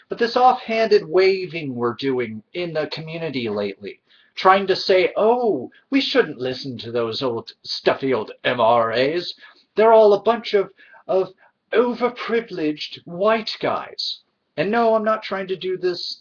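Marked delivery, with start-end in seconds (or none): 5.2-14.2 put-on snooty voice mocking critics; mocking accent. Vlogger mocking feminist critics of MRAs, put-on sneering accent. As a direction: sneer it out in a silly accent, slowing at the end. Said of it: "this accent of sorts".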